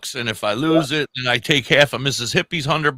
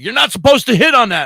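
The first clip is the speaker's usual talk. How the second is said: louder, higher mock reproach; scolding players; 10 semitones higher, 8 dB louder than usual. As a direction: scold him like an outraged table mate. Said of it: "they're like".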